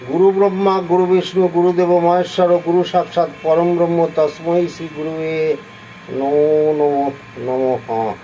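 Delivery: devotional recitation, slowing at the end; guru prayer recital. Acted. Offering the guru prayer to listeners, in devotional recital. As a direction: intone the prayer, drawing out the last line.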